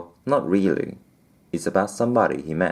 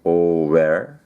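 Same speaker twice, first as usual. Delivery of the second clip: sniffed; 5 dB louder than usual. Acted. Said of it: "he sniffed".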